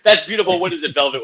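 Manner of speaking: loud mock Yiddish kvetch; Yiddish accent. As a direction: ham up an old Jewish aunt. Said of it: "was my Jewish line".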